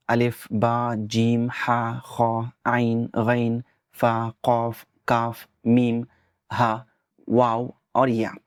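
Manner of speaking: slow, careful recital of the Arabic letters; letter names recited. Shown as a demonstration. Teacher reciting the Arabic moon letters one by one. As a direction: spell out each letter clearly for learners. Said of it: "अल हुरूफुल कमरिया ... बताया जा रहा है".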